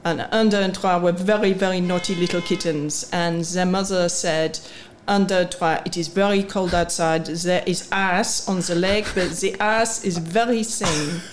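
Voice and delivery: put-on kitten joke told in a light French accent; a playful hint of a French accent on the story; mock French accent. Telling a kitten joke to the podcast hosts in a mock French accent. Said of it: "was that a French accent".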